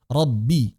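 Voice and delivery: Robbi with the ro in the nose, b like p; nasal ro. Shown as a demonstration. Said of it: "Ro-nya jadi ke rongga hidung". (ro dari rongga hidung)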